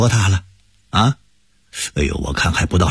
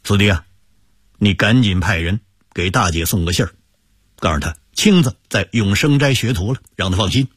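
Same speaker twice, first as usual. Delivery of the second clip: comforting; 3 semitones lower than usual. Acted. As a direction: settle the boy, promise him a home. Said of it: "安慰着说".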